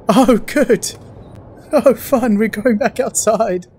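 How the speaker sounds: mock-cheerful, high and slow; sarcastic cheer. Real, not acted. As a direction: fake delight at bad news. Dreads going back outside.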